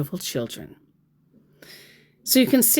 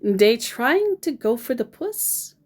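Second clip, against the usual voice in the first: slow retold question; 5 semitones higher than usual. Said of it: "I asked".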